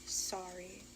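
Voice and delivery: soft, slow, hushed apology; sorry apology. Retold or imitated. To the baby daddy in the car, a soft, slow, sorry apology. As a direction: breathe out the sorry, quietly ashamed. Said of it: "all I could say is".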